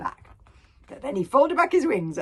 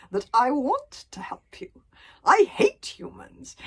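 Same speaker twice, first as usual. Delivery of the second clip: higher, slow, sneering dragon; 7 semitones higher, 7 dB louder, slower than usual. A narrator's reading. One Eye scorning Hiccup's plea, sneering. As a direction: drawl it with contempt. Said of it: "sneered One Eye".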